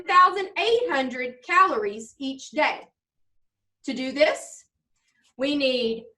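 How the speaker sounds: measured, expressive recitation for a judge; reading a presentation aloud. Acted. Junior presenting on blueberry muffins, read-aloud presentation style. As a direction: present it like a prepared school speech.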